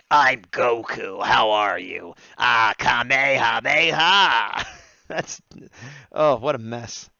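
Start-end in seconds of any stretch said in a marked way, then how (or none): 0.1-4.7 slow, lightly voiced cartoon hero, drawn out; a hint of Goku's boyish voice; higher Goku voice. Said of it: "he's got a much higher voice".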